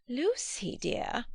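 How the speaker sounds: put-on a mild, gentle correction of a young cousin; gentle reproof. A narrator's reading. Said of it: "gently reproving her cousin's penetration".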